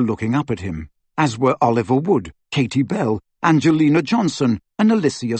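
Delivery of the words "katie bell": plain reading voice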